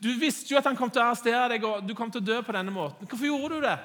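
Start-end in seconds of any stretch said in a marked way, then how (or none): 1.9-3.8 bystander challenging. Retold or imitated. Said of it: "Somebody else goes".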